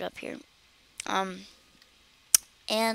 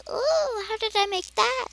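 surprised; 13 semitones higher, 3 dB louder than usual. Retold or imitated. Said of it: "I was like".

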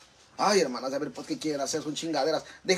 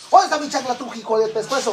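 calling out; 4 semitones higher than usual. Real, not acted. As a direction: demand it back across the room. Searching for sandal, calling.

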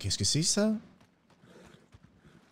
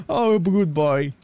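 slow, drawn-out praise; praising a dog; 5 dB louder, much slower than usual. Acted. Man petting the toutou, slow drawn-out praise. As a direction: stretch it out for the dog.

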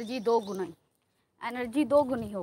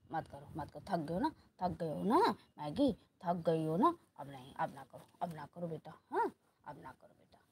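low, soft, soothing murmur; gentle coaxing; 5 semitones lower, 3 dB quieter than usual. Real, not acted. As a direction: softly talk a tired pet down. Soothing the tired dogs. (नरमी से समझाते हुए, धीमी आवाज़)

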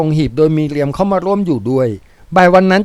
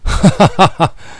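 laugh; 3 semitones higher than usual. A narrator's reading. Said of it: "แล้วหัวเราะ".

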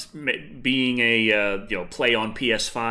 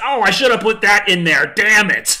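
higher, louder self-scolding cry; frustrated outburst; 7 semitones higher, 9 dB louder than usual. Retold or imitated. Realizing he missed a spot, loud annoyed outburst. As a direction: kick yourself out loud. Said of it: "I realized".

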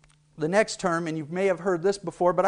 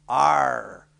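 pirate growl; 5 semitones lower than usual. Shown as a demonstration. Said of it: "it's simply".

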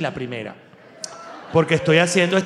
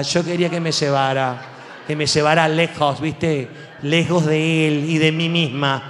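mock Argentine heartbreak; 3 semitones lower than usual. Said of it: "En el sur Chile, Argentina, Uruguay".

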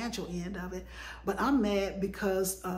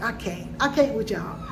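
laughing in disbelief; exasperated laughing I can't; laughing exasperation. Real, not acted. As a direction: laugh it off, fed up.

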